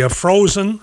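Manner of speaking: frozen leaned on a little; stress on frozen. Real, not acted. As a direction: give "frozen" a light extra push. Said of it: "and I emphasize the word frozen".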